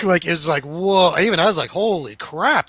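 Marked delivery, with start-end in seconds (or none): 1.7-2.7 louder, higher stunned reaction; mock starstruck disbelief; retold amazement. His own amazed reaction, retold.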